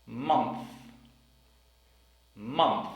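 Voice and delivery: Month ending in th; Month, th after n; careful final th. Shown as a demonstration. Teacher drilling the word Month. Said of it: "We also have".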